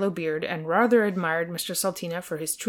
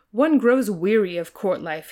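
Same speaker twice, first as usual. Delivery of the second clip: slow, languid royal drawl; lightly voiced jaded royal; weary prince; 2 semitones higher, 5 dB louder than usual. A narrator's reading. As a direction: sigh it out like a bored prince. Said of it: "he remarked".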